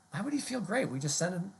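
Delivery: incredulous juror. Pretend. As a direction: ask it as a baffled juror. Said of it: "Do you hear".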